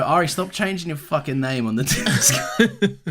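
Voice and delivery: laughing scold. Real, not acted. Mock scolding a listener, laughing.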